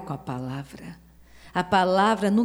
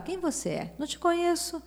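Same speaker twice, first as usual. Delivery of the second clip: mocking gatekeeper; faster than usual. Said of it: "não perguntava". (imitando um porteiro desconfiado, voz mais aguda)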